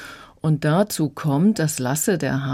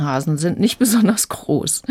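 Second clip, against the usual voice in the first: laughing whisper. Real, not acted. Interviewee amused aside.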